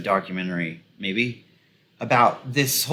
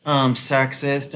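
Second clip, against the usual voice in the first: higher-pitched mock questioning; mock radio defenders; 4 semitones higher than usual. Commentator imitating radio hosts defending a founder, mockingly questioning. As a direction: lightly imitate pundits making excuses. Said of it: "They were like".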